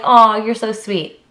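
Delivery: slow, drawn-out mock sweetness; mock condescending. Vlogger mocking a compliment she hates, slow and syrupy. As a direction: stretch the compliment out patronizingly. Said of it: "you can think of a better thing to say than".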